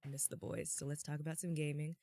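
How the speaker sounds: slightly raspy, hoarse voice. Real, not acted. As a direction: talk with a raspy throat. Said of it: "that little raspy thing you got going with your voice".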